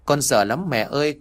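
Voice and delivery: a hint of a crying child, pitched a little up; understated teary repeat of the plea; whimpering through tears. The boy repeats his fear to mom, lightly tearful. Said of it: "Vừa khóc nó vừa nói mếu máo".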